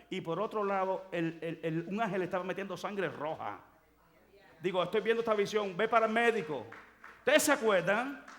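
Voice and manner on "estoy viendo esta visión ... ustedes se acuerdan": high, loud preacher's cry; shouting the vision to the church; preaching shout. Real, not acted. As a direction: proclaim it at full force.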